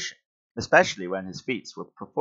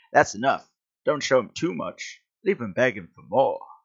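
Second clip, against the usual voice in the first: heavy put-on Louisiana accent; 2 semitones higher than usual. A character cuts off Spider-Man's TV spectacular: Louisiana accent. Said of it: "It's like a Louisiana accent here".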